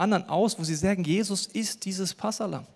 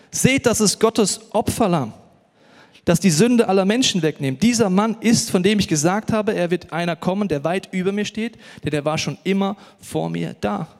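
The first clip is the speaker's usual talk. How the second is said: calling out; 2 semitones higher, 7 dB louder than usual. Retold or imitated. Preacher retells John the Baptist calling out, louder. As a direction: proclaim it like John crying out at the river. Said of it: "rief er".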